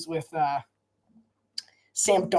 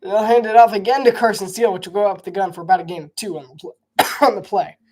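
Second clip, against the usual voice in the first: sportscaster call, a bit louder; live play-by-play; 2 semitones higher, 5 dB louder than usual. Acted. Streamer calling his own run play, lively broadcaster. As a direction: call the handoff like a TV announcer.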